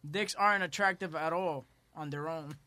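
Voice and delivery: en inglés, lento y marcado; cita leída lenta. Retold or imitated. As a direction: lee el testimonio despacio. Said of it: "otra dice". (leyendo despacio el testimonio de una mujer)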